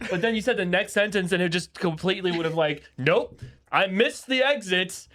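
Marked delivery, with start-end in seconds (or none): 3.0-5.1 slow, stretched-out sing-off; slow, comic kiss-off; drawn-out mock dismissal. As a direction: drag each word out as a breezy goodbye. Acting out a dropped thought.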